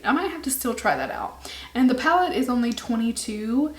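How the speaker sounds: strained, tiring hoarse voice; voice going hoarse. Real, not acted. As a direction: talk through a voice that's giving out. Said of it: "I'm about to start losing my voice".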